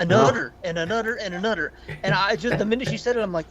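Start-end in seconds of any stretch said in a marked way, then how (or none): 0.0-1.7 "another" mimicked the Newfie way, as "anudder"; mock Newfie "another", repeated as examples; Newfie accent. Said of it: "It was a fucking Newfie accent".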